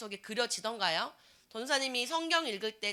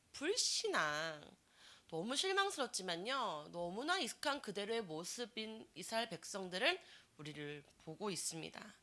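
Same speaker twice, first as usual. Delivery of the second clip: ordinary talk, nothing marked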